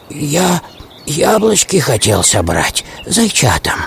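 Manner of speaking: small, hesitant hare voice; a touch of nervous hare; timid hare. Acted. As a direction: answer the wolf with halting, mild fear. Frightened hare answers wolf.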